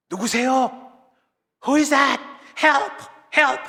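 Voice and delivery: high, loud cries for help; acted trapped survivor's yell; shouting for help. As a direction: call out urgently to someone unseen. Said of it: "소리를 지르기 시작했습니다".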